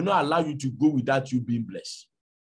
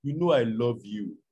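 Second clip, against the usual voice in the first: lightly voiced husband calming his wife; patient husband. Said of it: "he talked patiently".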